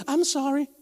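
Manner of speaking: mocking boss calling security; American boss. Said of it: "le van a decir al americano". (jefe americano llamando a seguridad)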